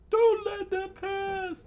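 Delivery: very high, loud falsetto yell; commanding kid. Acted. Child leader rallying boys against bandits, commanding. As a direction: squeal the order, drawn out.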